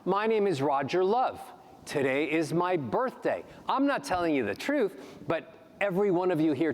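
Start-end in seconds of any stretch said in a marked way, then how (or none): 0.0-3.4 rising upbeat melody, a touch higher; lightly done happy rising tune; ascending melody. Shown as a demonstration. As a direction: let each phrase climb from low to high. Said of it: "ascending melodies, going from low to high".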